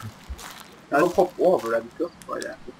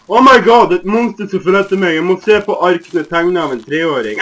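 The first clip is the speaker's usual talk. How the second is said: panicked; 5 semitones higher, 10 dB louder than usual. Real, not acted. Chased by a monster.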